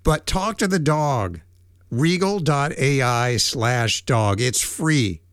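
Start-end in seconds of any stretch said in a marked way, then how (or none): 1.9-4.4 web address run through in one go; brisk read of a web address; quicker take. Real, not acted. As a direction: say the address briskly without big gaps. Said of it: "I know I said it too fast".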